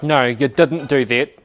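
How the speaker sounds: imitating a Kiwi designer, drawn out; mock Kiwi refusal; Kiwi accent. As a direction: put on a slow New Zealand accent. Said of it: "Our designer's a Kiwi".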